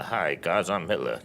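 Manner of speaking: a low, flat, deadpan Hi guys I'm Hitler; low end of his range. Shown as a demonstration. Actor showing the bottom of his acting range, low and soft. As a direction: keep Hitler low and soft, barely moving. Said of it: "this is my range as an actor".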